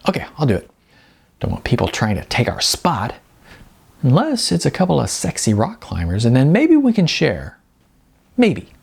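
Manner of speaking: a touch of cheeky tease; teasing Jasmine. Acted. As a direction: flirt with the idea, coy on the last maybe. Jasmine teases about rock climbers.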